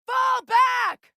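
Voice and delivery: shouted warning to fall back; urgent combat call; battle shout. Acted. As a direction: yell it across the fight.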